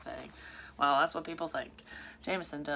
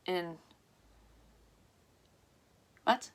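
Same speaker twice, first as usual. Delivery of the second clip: ordinary delivery, nothing marked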